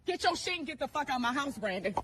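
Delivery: yelling, escalating rage at a cheating husband; furious confrontation. Acted. Wife screaming at cheating husband in the parking lot, furious. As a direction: scream it like you caught him red-handed.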